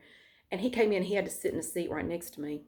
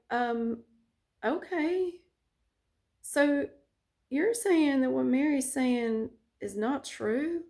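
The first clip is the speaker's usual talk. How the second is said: confused; 4 semitones higher, slower than usual. Retold or imitated. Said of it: "she was all confused, like".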